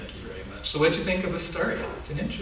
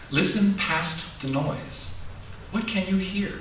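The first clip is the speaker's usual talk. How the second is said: slow, gentle picture-book reading; reading to children; slower than usual. A narrator's reading.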